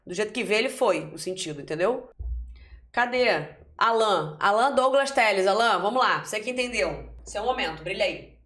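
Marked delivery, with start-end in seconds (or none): 2.9-6.2 calling out. Real, not acted. Calling on a classmate to speak.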